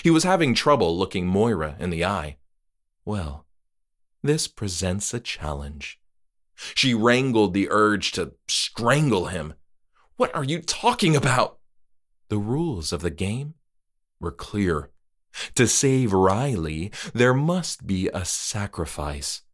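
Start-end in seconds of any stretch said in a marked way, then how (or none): 3.0-6.0 lower, softer, calm courteous voice; measured and unbothered; polite creepy host. Acted. Trick-or-treater voiced, low. 10.2-11.6 higher voice, baffled; puzzled Moira. Acted. Moira confused, high. 12.3-19.4 formal creepy host. Acted. Trick-or-treater explains rules.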